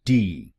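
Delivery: टी said alone as one crisp syllable; syllable demo. Shown as a demonstration. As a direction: model the final टी clearly. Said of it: "को बोलिए टी". (आखिरी शब्दांश टी साफ़ बोलें)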